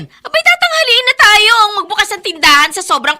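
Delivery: calling out. Acted. Mother calling children to hurry.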